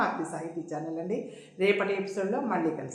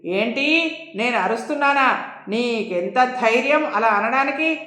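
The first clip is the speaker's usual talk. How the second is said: indignant, lightly raised voice; understated angry outburst; mild narrated shouting; 4 semitones higher, 9 dB louder than usual. A narrator's reading. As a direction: act an affronted warden, only half shouting. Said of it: "ఇంకా గట్టిగా అరుస్తూ".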